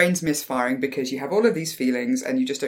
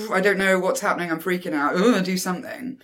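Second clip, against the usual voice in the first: quick, mildly flustered inner voice; a touch of mock panic; freaking-out brain. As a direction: rattle it off with an exasperated ugh. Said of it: "my brain's just going".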